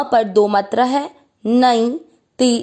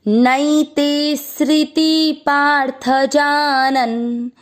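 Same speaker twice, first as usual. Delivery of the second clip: slow verse recitation; much slower than usual. Shown as a demonstration. Teacher reciting the Gita line slowly for students to follow. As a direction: chant each syllable of the verse slowly and evenly. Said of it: "पूरे श्लोक का उच्चारण एक साथ".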